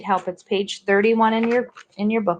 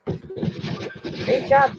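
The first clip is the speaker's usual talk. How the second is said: whisper; 4 semitones higher, 6 dB quieter than usual. Real, not acted. Whispered praise.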